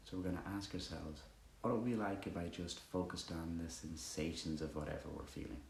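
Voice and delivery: calm meditation guide with long pauses; guided meditation. Acted. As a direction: ease listeners quietly into the breath, leaving space between phrases.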